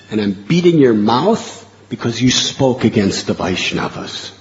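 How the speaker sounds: loud, stern scolding of a wayward devotee; furious loud reprimand; harsh angry rebuke. Retold or imitated. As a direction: thunder at him like an angry deity. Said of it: "Jagannath very harshly says".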